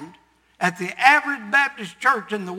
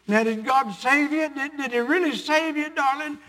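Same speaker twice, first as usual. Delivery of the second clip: pleading disbelief; 5 semitones higher than usual. Retold or imitated. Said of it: "patted him and said".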